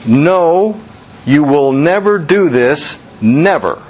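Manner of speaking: firm stress on "No" and both "never"s; emphatic refusal. Retold or imitated. Peter refusing to let Jesus wash him, emphatic. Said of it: "It's a double negative for emphasis".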